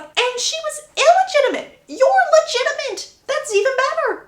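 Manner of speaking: put-on chirpy young lady cheering him up; bubbly Hyacinth voice. Hyacinth's cheery reply voiced in a story.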